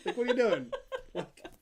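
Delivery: laughing through the words; giggling as she asks; real laughter in the voice. Real, not acted.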